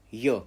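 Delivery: teacher sounding out a letter; Russian letter sound. Shown as a demonstration. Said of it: "but you have to pronounce it".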